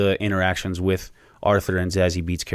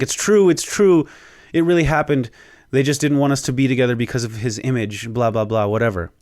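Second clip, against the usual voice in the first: pleading mother; 4 semitones higher than usual. Retold or imitated. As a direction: mimic his mother insisting, then trailing into blah blah. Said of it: "Arthur freaks out on his mom".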